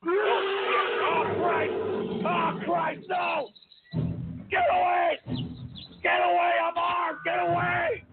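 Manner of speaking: high frantic cries to get away; panicked shouting. Pretend. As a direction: yell like you're being attacked. Panicked fake fight in game.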